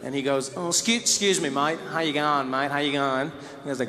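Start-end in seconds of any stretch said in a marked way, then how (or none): 0.6-3.3 hesitant imitation Australian; mock-nervous, lower-pitched greeting; tentative courage. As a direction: edge politely into it, stumbling a little. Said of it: "finally he plucks up the cour-, the courage".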